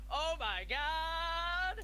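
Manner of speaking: high, very slow, drawn-out mock shock; overdramatic gasp. Player voices a bystander's overdramatic shocked gasp. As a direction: ham it up like a fainting bystander. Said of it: "Going to overdramatically".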